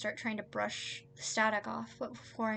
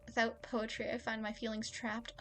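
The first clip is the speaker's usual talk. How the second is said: careful metered verse; deliberate reading, fading toward the end; earnest poem recital; 2 semitones higher than usual. Acted. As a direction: recite the confession as formal poetry.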